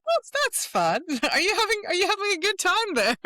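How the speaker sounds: high, loud playful mock question; amused, sing-song ribbing, laughing through it; teasing. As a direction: tease them like kids squabbling. Teasing her inner parts fighting.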